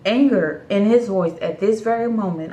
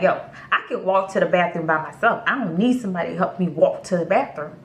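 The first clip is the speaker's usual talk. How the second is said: quick, matter-of-fact grumble in usual pitch; blunt inner retort; faster than usual. Retold or imitated. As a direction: rattle off what you wouldn't dare say aloud. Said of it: "but in my head, I'm like".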